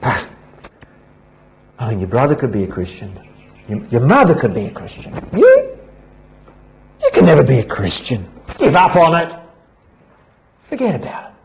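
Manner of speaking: light hint of a sly tempter, fast; Satan voiced as a lightly whispering tempter; tempter's voice. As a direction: coax them out of hope, quick and sly. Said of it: "Satan comes and he whispers".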